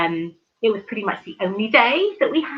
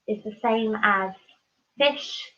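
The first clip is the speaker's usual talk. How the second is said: mock poetic recital; 3 dB quieter, slower than usual. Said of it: "As the poet once said".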